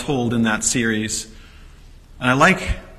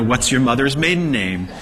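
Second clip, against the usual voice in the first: mock security questions; 4 semitones higher, 4 dB louder than usual. Preacher voicing Peter's security questions.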